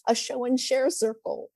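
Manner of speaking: lightly voiced little girl with big news; excited little girl. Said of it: "she comes in and she says".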